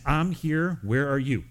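God calling out. Acted. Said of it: "God is saying".

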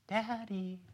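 put-on small, soft and high, a child's whispery call; a toddler whispering for his dad; little whispery voice. Son waking from his nap, calling softly for his father in a little whispery voice. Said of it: "in this little whispery voice".

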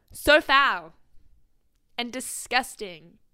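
drawn-out disgusted so foul. Real, not acted. Grossed out by the question, drawn-out disgust. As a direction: let the disgust drag out.

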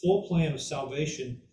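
full given the weight, falling tune; stress on full. Shown as a demonstration. Teacher explaining salvation, hitting full. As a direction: make full the key word. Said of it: "that's why I stress that word full".

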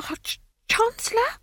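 high, slow startled gasp; breathless, stunned disbelief; gasped in shock. A narrator's reading. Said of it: "gasped the wizard".

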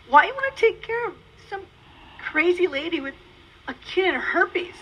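acting out her baffled reply; incredulous question. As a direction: question his offer in disbelief. Retold disbelief at marriage proposal.

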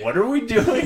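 imitating Brandon confused. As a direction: lightly act out his puzzled question. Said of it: "He was like".

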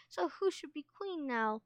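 playful pretend dismay; mock anguish. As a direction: ask it as a theatrical lament. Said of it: "let out a cry of anguish".

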